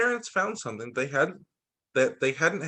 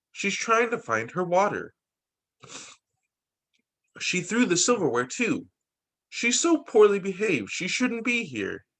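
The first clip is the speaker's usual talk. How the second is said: complaining relatives; 4 semitones higher than usual. Acted. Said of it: "My relatives thought I was a monster".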